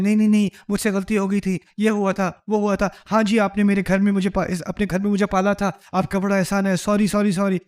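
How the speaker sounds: fast, flustered backpedalling; mock defensive apology. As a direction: gabble sorry after sorry, on the back foot. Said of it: "وہ شاید defensive ہو جائے".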